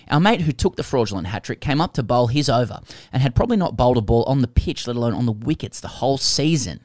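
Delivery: animated read-aloud with punched key words; reading a listener's letter. Acted.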